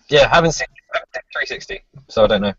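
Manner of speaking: ordinary talk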